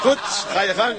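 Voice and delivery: laughing. Acted. Captain laughs at monkey joke.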